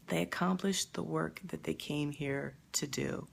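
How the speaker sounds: near tears. Real, not acted. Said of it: "I'm gonna start crying if I keep talking".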